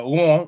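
"won" said high and rising; tone example. Shown as a demonstration. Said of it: "very simple examples like".

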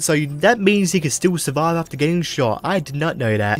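dry, deadpan fake surprise; sarcastic. Real, not acted. Gamer mocking the game's twist, sarcastic. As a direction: say it as if it were news to you, sarcastically. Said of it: "I'm being very sarcastic right now".

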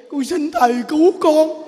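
high, comic tearful plea for rescue; hammed-up blubbering; mock crying. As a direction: imitate a weeping man begging the nun. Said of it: "Con khóc".

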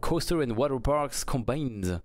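thick French accent on English, slowing down; lousy English accent. Real, not acted. Streamer reading an English trailer title aloud, bad French-accented English. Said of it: "Quel bel accent de merde".

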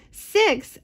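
high, puzzled "Six?"; puzzled question. Acted. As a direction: hen Ida checking the number, puzzled. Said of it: "asked Ida".

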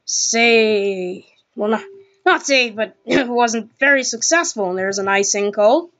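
hockey play-by-play voice; NHL commentator. Pretend. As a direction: call the game like a TV announcer. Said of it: "do my best impression of an N H L commentator".

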